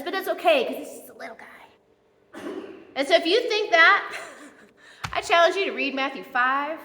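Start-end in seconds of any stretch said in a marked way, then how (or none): 0.0-2.4 small, soft mock-innocent voice; cutesy excusing. Churchgoer excusing a small sin, in a soft cutesy voice. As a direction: play down the little sin, softly.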